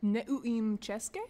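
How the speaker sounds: slow Czech in an American accent; butchered American accent. Shown as a demonstration. Practising a Czech phrase, butchered American accent. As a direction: carefully sound out Czech with American vowels. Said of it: "in butchered American accent".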